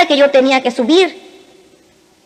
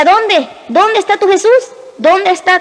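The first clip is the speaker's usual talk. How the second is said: higher-pitched, mildly mocking questions; Satan's mockery; 5 semitones higher than usual. Satan taunts the woman about her missing Jesus, mildly mocking. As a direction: lightly imitate a taunting devil. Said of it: "se burlaba de mí".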